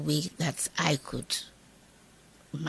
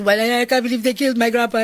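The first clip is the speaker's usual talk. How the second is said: put-on child's wail; 6 semitones higher, 8 dB louder than usual. Children voiced wailing in story.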